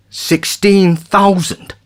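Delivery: high, slow incredulous "Sixteen thousand?"; astonished question. A narrator's reading. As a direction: draw it out in disbelief. Maynard astonished at offer.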